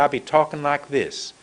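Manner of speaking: light Southern accent from North Carolina; a Southern lilt with long vowels. Shown as a demonstration. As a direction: talk like a North Carolina native. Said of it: "born in North Carolina".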